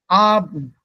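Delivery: Abend with the E dropped; silent E. Shown as a demonstration. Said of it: "So the E is not pronounced here".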